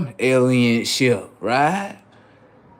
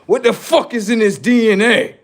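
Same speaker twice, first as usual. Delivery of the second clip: baffled alien; 8 semitones higher, 4 dB louder than usual. Acted. Alien probing body.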